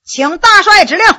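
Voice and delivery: loud, crisp military reply. A narrator's reading. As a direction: report loudly to the commander. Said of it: "大声说".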